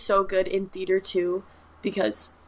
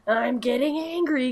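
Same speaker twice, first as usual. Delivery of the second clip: drawn-out, raised creepy taunt; lightly mock a scary movie villain; menacing movie quote; 5 semitones higher, slower than usual. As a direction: stretch it out to spook someone. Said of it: "scaring me, saying".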